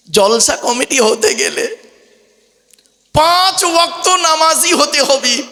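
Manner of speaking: slow drawn-out preaching; slow motion. Shown as a demonstration. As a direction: stretch each word long and high. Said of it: "টেনে টুনে দিচ্ছি বাবা".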